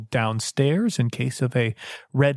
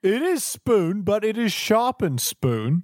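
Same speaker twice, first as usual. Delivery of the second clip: broken English servant; 5 semitones higher, slower than usual. Acted.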